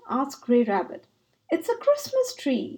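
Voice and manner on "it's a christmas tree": soft-voiced Mole. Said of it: "said Mole in his soft voice".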